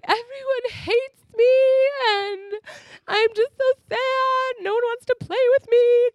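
put-on high, slow whiny sob of a sad kid; mock crying child. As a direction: whimper it like a dramatic little girl. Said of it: "I remember just feeling like".

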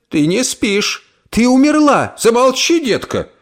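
put-on high, sharp old aunt; stern hush. Aunt tells Emily she is awake, stern. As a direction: shush her firmly.

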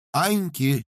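lively reply. Acted. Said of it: "живо обернулась она".

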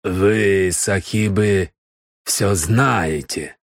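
slow, scornful sneer; contemptuous. Acted. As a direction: sneer the words slowly. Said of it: "презрительно оскалил зубы".

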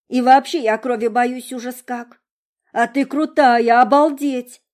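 put-on high, loud gushing girlish voice; cartoon princess. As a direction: gush like a starry-eyed princess. Monro gushing over friend.

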